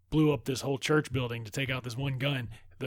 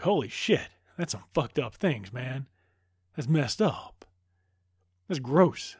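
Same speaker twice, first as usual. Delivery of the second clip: loud, appalled exclamations, hammed up; mock shocked disgust; 5 dB louder, slower than usual. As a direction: react out loud as if grossed out. Acted shocked reaction to gruesome death.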